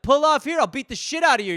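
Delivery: loud mock tough-guy threat; hammed-up road rage. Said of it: "someone's like".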